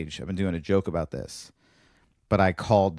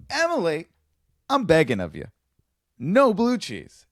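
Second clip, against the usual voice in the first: high, stretched-out plea, begging; mock begging; 8 semitones higher, 4 dB louder than usual. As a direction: beg her like your life depends on it. Desperate plea to Emily.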